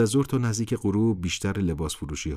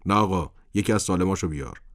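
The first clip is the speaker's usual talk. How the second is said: upset; 2 semitones higher, 5 dB louder than usual. A narrator's reading. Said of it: "قربان با ناراحتی گفت".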